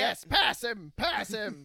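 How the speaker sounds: loud echo of the coach; acted urging. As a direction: call it out like racing orders. Driver echoes his coach's urging.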